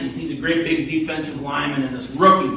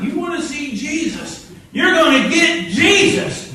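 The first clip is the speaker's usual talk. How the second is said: threatening, building; 11 semitones higher, 4 dB louder than usual. Retold or imitated. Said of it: "He's like".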